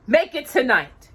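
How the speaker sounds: the king sets the deadline; commanding. A narrator's reading. King orders the Grand Duke, commanding. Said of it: "the king commanded".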